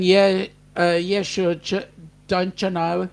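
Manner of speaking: lightly imitated Minnesota accent, pitched a little up; a hint of Minnesota talk; Minnesota accent imitation. Co-host reading out Nick's Minnesota talk, lightly imitated Minnesota accent. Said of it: "trying to give me the Minnesota talk".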